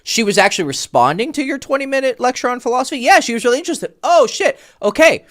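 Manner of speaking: imitating an amazed coach, pitch riding up; acted coach's realization. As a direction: play someone suddenly piecing it together. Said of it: "and you go".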